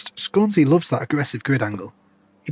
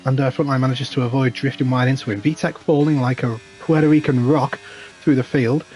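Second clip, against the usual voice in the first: motorsport commentator. Acted. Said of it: "Damn, I've got some energy today".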